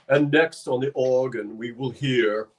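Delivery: lightly voiced highbrow concert announcer. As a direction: imitate a lofty man at the microphone. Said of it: "he's being very highbrow with the microphone".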